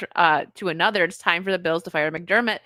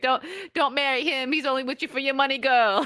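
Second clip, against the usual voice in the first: lightly put-on Jamaican accent, pitched up; mock Jamaican psychic, quick higher delivery; Miss Cleo; 5 semitones higher than usual. TV psychic warning a caller about a man, fake Jamaican accent. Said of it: "like, Jamaican accent".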